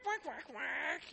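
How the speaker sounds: sing-song duck quacks, slow; duck choir quacking. Acted. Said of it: "The duck choir sings".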